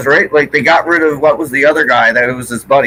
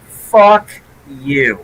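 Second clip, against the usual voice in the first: swearing out loud. Real, not acted. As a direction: let the curse out openly. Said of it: "I can say this now".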